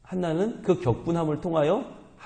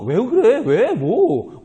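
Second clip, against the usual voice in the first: higher, louder mock bewilderment; clueless husband; 6 semitones higher, 5 dB louder, much slower than usual. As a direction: blurt out baffled questions as a clueless husband. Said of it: "왜 화가 났는지 모르고". (영문 모르는 남편의 높고 큰 말투)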